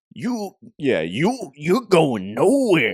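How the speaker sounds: animated character voice with pitch swooping all over. Doing a requested Spider-Man wrestler line in a Macho Man Randy Savage voice. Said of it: "Macho Man impression off the top".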